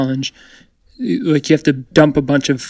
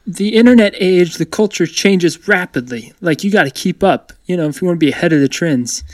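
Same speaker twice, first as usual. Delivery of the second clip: theatrical; 2 semitones higher than usual. Real, not acted. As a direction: play up the drama, punching key words. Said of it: "I like how you're saying that".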